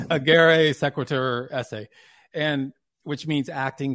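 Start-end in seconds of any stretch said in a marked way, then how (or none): 0.1-1.9 slow, careful Latin: agere sequitur esse; Latin phrase. Shown as a demonstration. Host quoting Aristotle to the guest, slow careful Latin. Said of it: "well, I will".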